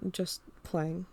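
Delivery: a soft, clipped-off mumble; short mumble. Acted. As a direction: mumble it to cut the talk short. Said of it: "I mumbled".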